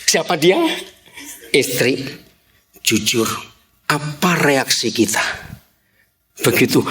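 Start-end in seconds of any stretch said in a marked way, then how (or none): none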